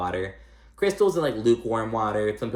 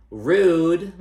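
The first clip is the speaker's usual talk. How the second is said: mocking blunt verdict; 8 semitones higher, 9 dB louder than usual. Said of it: "she's like".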